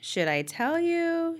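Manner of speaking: very high, playful, teasing taunt. Already knowing the answer, she teases the narrator and Jenny, teasing. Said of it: "she teases".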